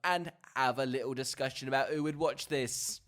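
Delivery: put-on podcast welcome in a Cockney accent; lively Cockney host greeting. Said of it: "he's got his Cockney out".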